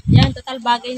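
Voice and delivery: lisping through a gap in the teeth; speaking with missing front teeth. Real, not acted. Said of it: "Kasi bungal ka din".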